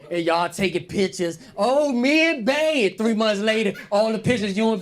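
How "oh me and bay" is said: high, loud, slow gushing; hammed-up lovestruck gushing; mock proud lover. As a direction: gush over the new love.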